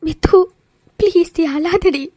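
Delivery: slow, imploring comfort; pleading consolation. Acted. Vaishu consoles her crying friend Mithu, slowly pleading. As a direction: beg a friend to stop the tears.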